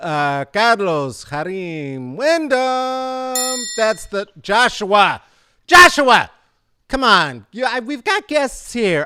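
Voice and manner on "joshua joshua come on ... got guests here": sudden loud yelling. Interrupting the intro to call someone out because guests are here: yelling. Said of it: "I don't mean to yell".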